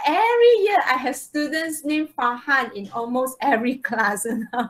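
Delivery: talking through real laughter; amused, laughing through the sentence; teacher chuckling while telling the Farhan joke. Real, not acted.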